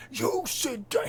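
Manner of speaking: high, loud, drawn-out British bellow; boisterous Parliament speaker. Retold or imitated. Streamer mimicking Parliament's main speaker, boisterous British accent. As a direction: imitate a boisterous British speaker calling order. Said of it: "boisterous with his accent".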